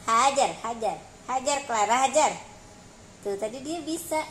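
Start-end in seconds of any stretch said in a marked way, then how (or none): 0.1-2.4 louder chant urging the cat; 1 loud egging on. Real, not acted. Owner urging Clara to attack the scratch post, loud. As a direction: egg her on, go go go.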